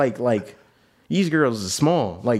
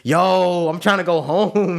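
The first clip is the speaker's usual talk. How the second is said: exasperated; 6 semitones higher, 3 dB louder, much slower than usual. Retold or imitated. Exasperated wanting to leave.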